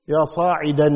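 "يا صاعدا" ending in a held -an, sa'idan; fatha with tanween. Shown as a demonstration. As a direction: sound the final n on "صاعدا". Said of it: "منون بالفتحة". (نطق "يا صاعدا" بتنوين الفتح: صاعدًا)

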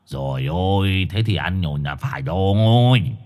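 giọng khàn khàn trách móc; hoarse scolding dog. A narrator's reading. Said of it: "tiếng khàn khàn".

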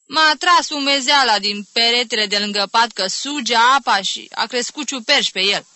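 loud, high, plaintive whine; whiny, tearful complaint. Acted. Aunt blaming the damp wall by her bed, whiny. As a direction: complain as if close to tears. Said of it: "Plângăreț".

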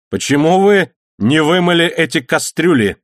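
a loud, stern demand. A narrator's reading. Mate scolding the cook over dirty pots, stern and loud. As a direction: scold him loudly about the pots. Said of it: "строго спросил помощник".

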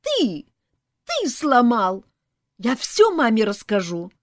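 high, loud tattletale cry; ringing child's shout. A narrator's reading. Child blaming another and threatening to tell, shouting. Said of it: "звонко кричал детский голос".

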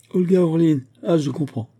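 high, loud burst of recognition; amused exclamation. A narrator's reading. Batourov recognises the name his friend confessed, amused exclamation. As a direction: seize on the name with open amusement. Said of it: "en riant de si bon cœur".

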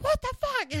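imitating her own furious self; retold outrage. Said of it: "I was like".

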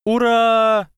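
high, loud crowd cheer; cheering shout. A narrator's reading. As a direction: roar out the cheer. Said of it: "закричали солнечные солдаты".

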